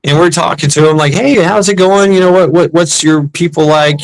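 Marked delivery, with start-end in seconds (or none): 1.1-4.0 higher-pitched casual chat, quoting yourself; chatty, curious questions in a lifted voice; retold friendly small talk. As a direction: imitate breezy small talk with a stranger. Quoting himself chatting to the Korean marine.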